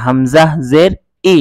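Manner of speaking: হামজা জের ই with a firm, hard ই; firm hamza. Shown as a demonstration. Teacher shows students a firm hamza with zer. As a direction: give ই a firm onset. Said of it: "হামজা একটু শক্ত করে".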